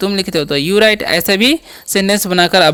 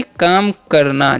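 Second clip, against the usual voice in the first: काम करना drawn out slowly for the class; teacher slowly repeating काम करना; 4 semitones lower, much slower than usual. Shown as a demonstration. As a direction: stretch out काम करना so pupils can follow. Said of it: "क्या होता है जी".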